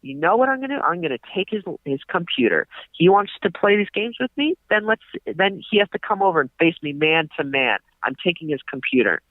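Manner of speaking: high, hammed-up threats; mock threatening rant. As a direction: threaten like a blustering landlord. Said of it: "then he's like".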